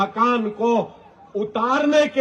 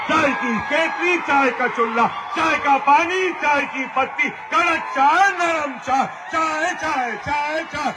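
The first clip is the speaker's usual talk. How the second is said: mock tea-seller cry; 3 semitones higher than usual.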